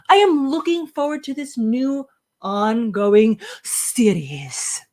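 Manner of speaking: light put-on British accent for a review. Co-host reading James's pick of the week, playful British voice. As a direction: read it out in a mock British accent. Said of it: "like, a British voice".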